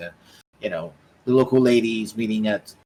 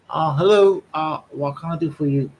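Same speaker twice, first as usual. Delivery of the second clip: put-on higher-pitched teenage rat greeting a visitor; young rat; 7 semitones higher, 5 dB louder than usual. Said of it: "a young rat".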